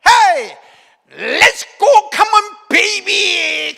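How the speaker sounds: loud, high cheering from the sideline; brash base coach yelling encouragement; coach's cheer. Retold or imitated. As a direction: fire up the team with a shout.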